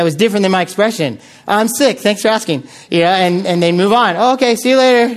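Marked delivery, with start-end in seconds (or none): 1.5-2.6 bad news in a lightly upbeat greeting voice; mismatched cheerfulness. College worker testing whether students listen, mildly cheerful. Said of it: "say things that don't, that do not match my expression". 4.2-5.1 oblivious friendliness. Retold or imitated. Student walking on past the greeter, obliviously friendly.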